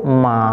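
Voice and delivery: second-tone "Ma", lifted at the end; rising tone. Shown as a demonstration. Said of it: "langsung tekein ke atas".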